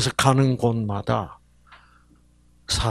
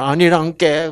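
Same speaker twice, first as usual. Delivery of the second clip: a touch of Jeolla twang; Jeolla dialect; 3 semitones higher, 3 dB louder than usual. Acted. Preacher voicing God, light Jeolla accent. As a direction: say 아니란께 with a Jeolla lilt. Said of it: "전라도에서는".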